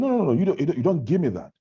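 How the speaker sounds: retold heated objection; heated refusal. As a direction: wave off the peacemaker, worked up. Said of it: "it was as if everyone was heated up".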